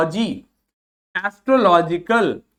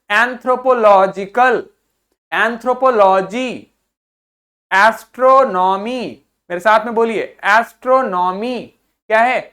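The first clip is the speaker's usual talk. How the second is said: loud repeat-after-me drill; 3 semitones higher, 5 dB louder than usual. Shown as a demonstration. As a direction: lead the class in loud repetition. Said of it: "मेरे साथ बोलिए". (मेरे साथ बोलिए, ज़ोर से)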